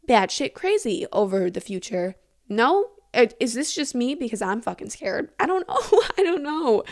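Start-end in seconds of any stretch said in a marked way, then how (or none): 5.4-6.8 laughing it off, pitched up; shaky laugh at her own fear; nervous laugh. Real, not acted. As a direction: giggle through the words. Nervous laugh after admitting fear.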